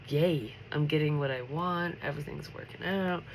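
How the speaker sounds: ordinary talk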